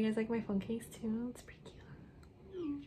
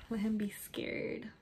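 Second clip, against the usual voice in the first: hushed aside; 6 dB quieter than usual. Real, not acted. Gloating aside after sending text.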